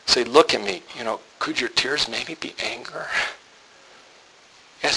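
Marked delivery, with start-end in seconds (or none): 0.2-3.1 very soft, gentle question; hushed and careful, unintimidating; lowered voice. Retold or imitated. Husband sitting down with his crying wife, lowered voice. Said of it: "lower my voice".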